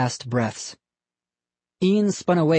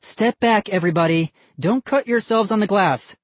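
urgent warning; 7 semitones higher than usual. A narrator's reading. Missus Barker warns everyone off the broken glass, urgent. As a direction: keep the kids from the glass.

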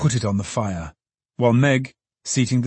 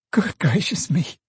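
exclaiming Meg; 7 semitones higher than usual. Acted. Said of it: "cried Meg".

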